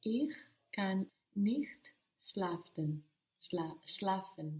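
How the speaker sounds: "schlafen" hurried with a stumble on "Schla-"; hurried learner's try; rushed. Real, not acted. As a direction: rush the words and trip on "schlafen". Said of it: "So don't rush it".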